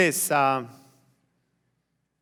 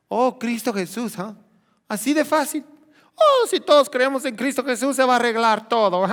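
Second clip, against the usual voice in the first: mocking quote; 4 semitones higher than usual. Mocking critics of the politician.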